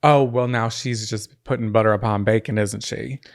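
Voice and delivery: put-on a touch of folksy country accent. Using the slang in a sentence, light country accent. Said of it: "you went right country".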